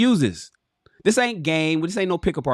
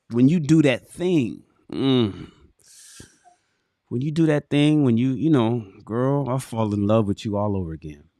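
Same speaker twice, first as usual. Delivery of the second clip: tender. Shown as a demonstration. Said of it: "Oh, baby, I love that".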